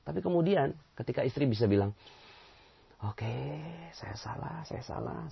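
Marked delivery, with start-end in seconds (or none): 3.0-5.2 soft admission. Acted. Wife softly admitting fault.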